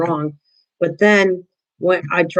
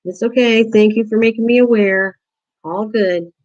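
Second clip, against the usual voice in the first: higher, soothing thanks to the dog; reassuring the dog; 5 semitones higher than usual. Shown as a demonstration. Telling her dog its warning was heard: higher, soothing. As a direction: reassure the dog it did well. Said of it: "I talk to it like it's a human being".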